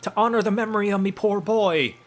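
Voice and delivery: high-pitched scolding crone voice; hammed-up hag, rising on each "eh"; indignant old hag. Hag confronting intruders at the flowers, indignant high voice.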